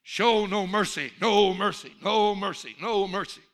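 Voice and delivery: coach's yell. Acted. Coach rallying big animals at halftime, yelling. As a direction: fire up the team at full volume. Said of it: "the coach for the big animals yelled".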